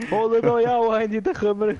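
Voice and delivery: excited shout. Retold or imitated. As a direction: yell it like a thrilled kid with news. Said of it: "rennt er raus".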